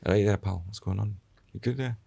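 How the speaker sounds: light Scottish lilt on a friendly greeting; casual Scottish accent put on for a stranger; mock Scottish accent. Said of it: "I'll always put a Scottish accent on".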